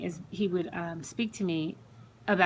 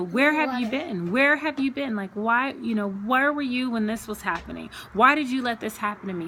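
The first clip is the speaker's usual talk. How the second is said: retold yell, louder and higher, building; yelling at God; 4 semitones higher, 4 dB louder than usual. Woman retelling how she cried and yelled at God, raised voice. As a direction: fling the questions upward in anger. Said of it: "I was kinda screaming at God".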